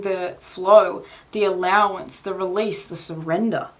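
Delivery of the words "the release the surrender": ordinary talk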